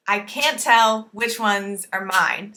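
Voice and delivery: slow demo of ordinary sentence emphasis; natural spoken stress. Shown as a demonstration. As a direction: lean on CAN'T, TELL and MINE, leave the rest light. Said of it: "only the emphasis on those three words".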